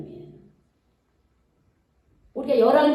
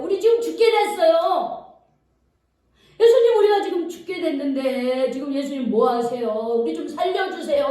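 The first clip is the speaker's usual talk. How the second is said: panicked complaint. Acted. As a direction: cry out to the sleeping master in alarm. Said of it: "막 불평하는 거예요". (잠든 예수님을 깨우는 제자들의 다급한 하소연)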